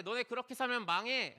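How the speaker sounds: mock prophet scolding the people; prophet's warning. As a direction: warn them like a stern prophet.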